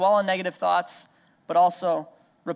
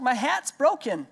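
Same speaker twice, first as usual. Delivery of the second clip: imitating a whining toddler; 7 semitones higher than usual.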